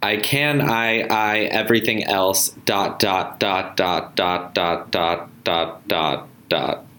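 lightly robotic voice. Acted. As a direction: read it like a gentle robot. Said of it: "Do, like, a light robot voice".

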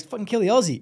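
playful imitation of a soldier calling out; mock battle call. Jokingly voicing Marine siccing enemy on him.

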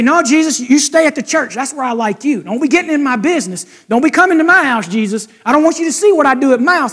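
a churchgoer keeps Jesus out of his home, hurried and dismissive; mock brush-off. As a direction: play someone shooing Jesus off, brisk and high. People telling Jesus to keep out.

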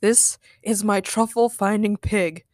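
slow, mildly proud presentation; understated, measured pride. Acted. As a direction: show it off slowly. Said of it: "Nick answered proudly".

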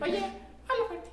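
a hint of a nagging schoolmate; mock classmate request. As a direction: imitate them pestering him.

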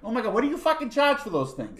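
hammed-up Boston tourist gasping at lobster prices; mock Boston accent. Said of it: "Can I do it?".

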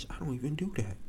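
scared to be blamed by the cop; nervous denial. Retold or imitated. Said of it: "I'm shaking".

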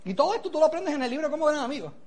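understanding mentor. Retold or imitated. Mentor to a worried recruit with no money, understanding. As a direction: empathise softly and low.

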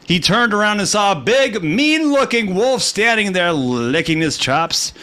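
put-on storyteller reading to kids; animated bedtime narration; bedtime story voice.

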